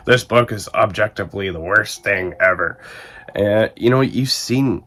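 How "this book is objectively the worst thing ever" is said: imitating a harsh book reviewer; mock reviewer. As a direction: voice a scornful online review. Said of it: "you've seen reviews like this".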